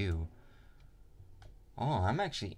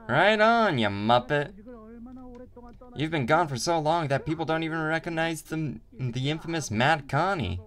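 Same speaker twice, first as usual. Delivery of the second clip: put-on higher, louder gruff old boss; old gang boss voice; 7 semitones higher, 4 dB louder than usual. Old boss hailing a long-lost lad, hearty rowdy voice. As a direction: greet him like a rowdy old mate. Graffer recognizes old friend.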